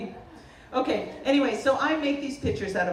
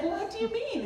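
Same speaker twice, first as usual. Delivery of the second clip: polite inner Boston; 12 semitones higher than usual. Retold or imitated. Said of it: "I harnessed my inner Boston".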